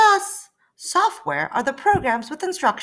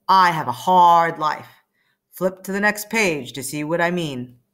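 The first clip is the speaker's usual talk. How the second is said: lower-voiced weary computer; computer character; 5 semitones lower, 3 dB louder than usual. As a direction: play the tired old computer who has it rough.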